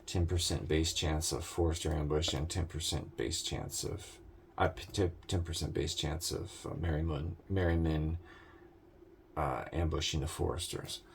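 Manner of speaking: drowsy, stumbling over words; half asleep. Real, not acted. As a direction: talk like you're nodding off. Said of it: "I'm, like, half asleep".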